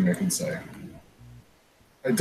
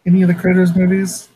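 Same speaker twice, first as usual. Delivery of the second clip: imitating an exasperated outburst, rising higher and louder; exasperated rant; 7 semitones higher, 4 dB louder than usual. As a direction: fire it at the writers like an accusation. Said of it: "I just get mad because I'm like".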